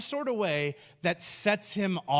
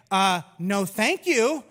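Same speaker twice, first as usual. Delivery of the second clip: polite Jesus; 5 dB louder, slower than usual. Pretend. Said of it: "My Jesus would say".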